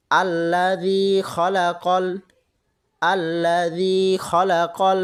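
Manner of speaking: আল্লাযী খলাকল said with quick, unstretched vowels; slow, careful Quran recitation with short vowels; quick short vowels, no stretching. Shown as a demonstration. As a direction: recite আল্লাযী খলাকল crisply, no drawn-out sounds. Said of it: "আমরা দ্রুত বলবো".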